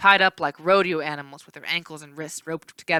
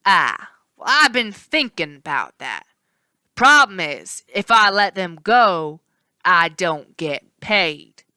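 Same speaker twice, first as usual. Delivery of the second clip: smug villain; 5 dB louder, slower than usual. Acted. Villain cowherd speaking.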